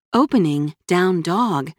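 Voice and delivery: slow, even phone assistant voice; reply like a machine; robot voice. Acted. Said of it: "answered a mechanical female voice".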